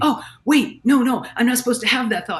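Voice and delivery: lightly played inner panic; mock self-scolding. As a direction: act out catching yourself in a bad thought. Acts out panicked self-scolding thought.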